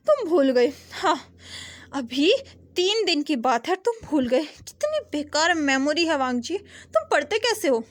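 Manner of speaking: exasperated, mocking older sister; teasing scold. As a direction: rib him for his bad memory. Sister teases forgetful brother.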